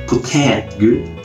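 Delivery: normal talking voice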